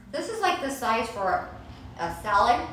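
talking through a mouthful of cucumber; words around a bite of food; mouth full. Real, not acted. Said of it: "talking with my mouth full".

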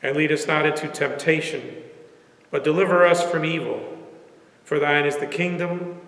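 measured prayer in short, paused phrases; congregational prayer. Real, not acted.

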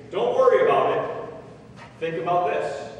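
dismissive well-meaning comforter; insensitive pep talk. Acted. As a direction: brush their pain off with forceful cheer. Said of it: "you're trying to say".

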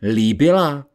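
indignant exclaimed echo. A narrator's reading. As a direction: throw the word back as a cry. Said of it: "zvolal Malšánc".

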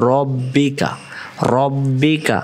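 রব্বিকা with a short heavy ro; corrected syllable. Shown as a demonstration. Teacher correcting the vowel for students. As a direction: say রব্বিকা, not রা. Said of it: "রা না".

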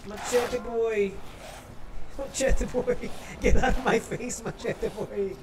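high, loud scared yelling; panicked yelling. Real, not acted. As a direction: yell at the attacker in panic. Yelling at pursuing enemy.

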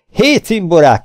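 high, loud call to mates; kiáltás. A narrator's reading. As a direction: call out sharply to the crew. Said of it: "kiáltotta". (odakiáltva a társaknak)

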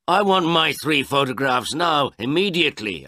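high, loud demand; demanding old man. Acted. Old man demanding his photographs from the photographer, high and loud. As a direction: insist on having them right now.

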